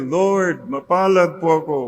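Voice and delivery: with a smile. Shown as a demonstration. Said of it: "Say it with a smile".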